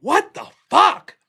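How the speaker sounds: slow, high, loud disbelief; retold bewilderment. Roommate safely back upstairs after the knife scene, bewildered exclamation. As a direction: stretch out each word, incredulous.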